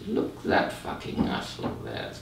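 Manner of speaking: contemptuous whispered inner thought. Retold or imitated. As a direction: hiss it like a judging thought under your breath. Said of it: "your mind thinks".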